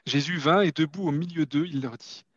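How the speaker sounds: measured reading of the Gospel; scripture reading. Acted. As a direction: read it aloud like a lesson in church. Reads John 20 aloud.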